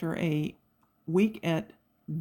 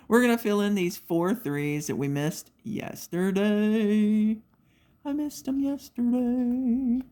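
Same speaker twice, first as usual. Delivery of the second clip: slow, high, playful sing-song; 4 semitones higher, slower than usual. Real, not acted. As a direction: croon it like a little tune. Sing-song self-talk while crafting.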